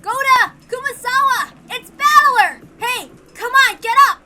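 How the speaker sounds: desperate high shouting through the window; frantic calls into the shed; calling out. Acted. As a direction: yell for them to wake up.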